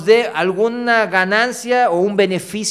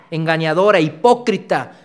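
ordinary talk, nothing marked

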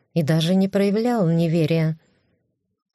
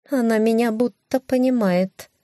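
cat voice; 5 semitones higher than usual. Acted. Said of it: "хмыкнула кошка".

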